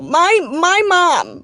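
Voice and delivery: usual speaking voice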